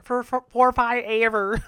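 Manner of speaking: slow and laughing through it; laughing drawl. Real, not acted. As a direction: let the laugh stretch it out. Laughing stretch.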